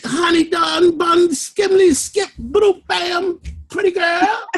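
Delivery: bouncy and goofy, a real burst of fun; playful teasing. Real, not acted. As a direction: tease her with made-up pet names. Playful greeting to a student.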